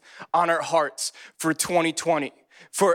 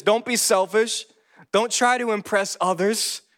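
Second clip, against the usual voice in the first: emphatic scripture reading; 4 semitones higher, slower than usual. Real, not acted. Reads scripture to congregation.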